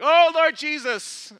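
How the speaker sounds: high, loud, stretched-out invocation; loud praying cry. Retold or imitated. Pastor embarrasses man in busy foyer, praying out loud. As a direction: belt out a sudden prayer, dragging it out.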